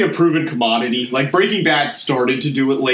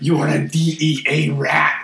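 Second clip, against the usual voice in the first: rude villain voice; slower than usual. Retold or imitated. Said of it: "he was really rude".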